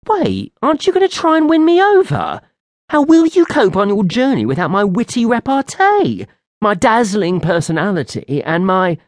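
a hammed-up vain little fairy; pleading fairy. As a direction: whine to be won over. Fairy pleading to come along.

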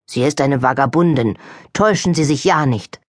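a hint of a grim, older housekeeper; lightly voiced suspicious servant, grim; older maid warning her mistress, grimly; grim older woman. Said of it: "Diese Stimme war älter und klang grimmig".

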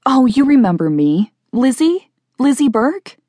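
high, rising questions; hopeful reminder. Acted. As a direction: prompt them hopefully, pitched well up. Imagined reunion, reminding people who she is.

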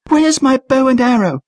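put-on high shouted girl voice; shouting. A narrator's reading. Trish shouting for her bow during the attack, high shout. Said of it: "she shouted".

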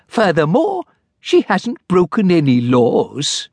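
high, fussy little clerk; timid clerk. Acted. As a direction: plead politely like a nervous clerk. Clerk character voice.

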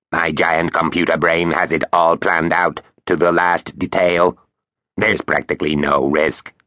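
lightly voiced smug robot; confident talking machine; quacky robot voice. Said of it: "Its quacky robot voice".

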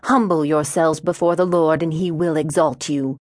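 lightly intoned sermon line; measured, understated pulpit delivery; intoned scripture. A narrator's reading. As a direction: recite it as a preacher's admonition. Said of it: "Wyoming intoned".

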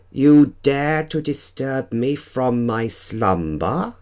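high, slow, theatrical dark lord; outraged vampire lord, drawn out; angry and disbelieving. Acted. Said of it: "pitched somewhere between angry and disbelieving".

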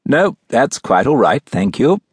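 polite formal English butler; courteous, proper English diction; English accent. Acted. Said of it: "his smooth English accent and strict formal diction".

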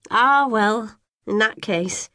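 put-on high, fluttery old lady voice; fussy neighbour. A narrator's reading. Old neighbour greeting the twins in a high, gushing voice. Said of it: "says Missus Dunkerley".

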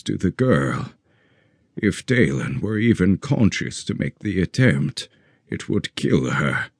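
grieving, weary voice. Acted. Olmec in grief, exhausted.

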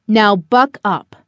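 slow, firm command; authoritative. Acted. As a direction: say it with full authority. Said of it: "said with such authority".

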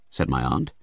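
ordinary delivery

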